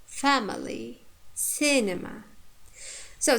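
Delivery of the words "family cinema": "Family, cinema" each stressed on the first syllable. Shown as a demonstration. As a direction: punch the opening syllable of "Family" and "cinema", relax the rest. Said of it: "first, uh, syllable takes stress".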